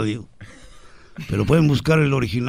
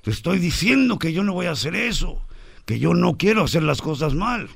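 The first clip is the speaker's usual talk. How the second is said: put-on higher, indignant girl's voice; worked-up daughter; 6 semitones higher than usual. Daughter protests to her father, higher and indignant. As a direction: protest like an offended teenage girl. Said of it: "La niña exaltada".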